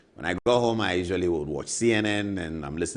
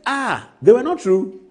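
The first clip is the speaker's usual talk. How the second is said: incredulous echo; 12 semitones higher, 8 dB louder than usual. Retold or imitated. His disbelieving echo of lawyer.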